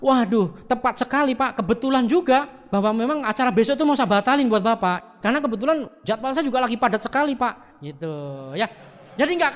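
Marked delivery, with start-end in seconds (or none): 0.0-7.8 professional reply. Shown as a demonstration. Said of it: "Anda langsung ngomongnya profesional".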